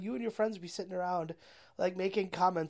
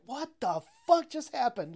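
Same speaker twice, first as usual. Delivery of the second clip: bewildered tire; 3 semitones higher than usual. Retold or imitated. Tire wakes up spitting out water, mock bewildered. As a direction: come to, baffled, hammed-up. Acts out tire waking from bender.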